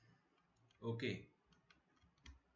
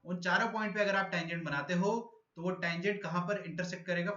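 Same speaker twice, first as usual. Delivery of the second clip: higher, louder first explanation; louder, higher first pass; speaking louder; 5 semitones higher, 3 dB louder than usual. Real, not acted. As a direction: project the question to the class. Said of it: "तो मैं अब जोर से बोलूंगा".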